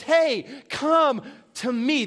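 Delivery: slow, inviting call of God; a tender, unhurried beckon; gentle call. Retold or imitated. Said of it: "and he says".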